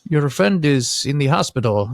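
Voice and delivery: slow, careful broken-English delivery; lightly put-on broken English, word by word. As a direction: imitate halting foreign-accented English, lightly. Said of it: "they're very broken English".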